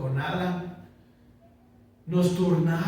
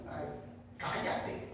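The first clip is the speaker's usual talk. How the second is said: hushed mock snap; 5 semitones lower, 14 dB quieter, slower than usual. Fed-up parent to crying baby.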